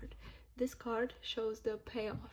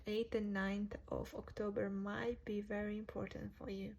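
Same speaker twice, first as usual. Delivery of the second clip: talking through a yawn; words stretched by a yawn; 3 dB quieter than usual. Real, not acted. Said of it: "Sorry, I just yawned".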